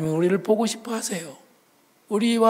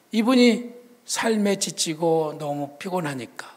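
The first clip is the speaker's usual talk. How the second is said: usual speaking voice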